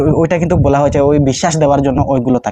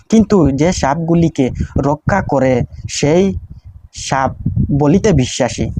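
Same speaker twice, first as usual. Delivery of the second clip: prayer recitation; slower than usual. Shown as a demonstration.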